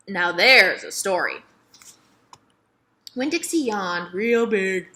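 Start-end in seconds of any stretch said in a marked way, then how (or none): 0.1-1.4 slow, louder, knowing; storyteller. Acted. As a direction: savor the promise of a tale. Miss Franny announces, slow.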